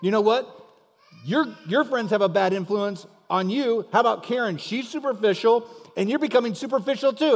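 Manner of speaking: husband's side of a mock quarrel; lightly acted arguing husband. Husband fires back in quarrel.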